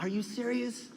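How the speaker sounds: high-pitched, incredulous questions; acted disbelief. Grandson listening to grandmother's stories, incredulous. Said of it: "I would just listen to her like".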